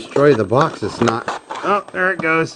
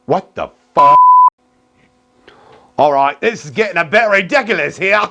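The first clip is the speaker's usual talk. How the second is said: high squeaky voice; 10 semitones higher, 6 dB louder than usual. Acted. Comedic voice skit.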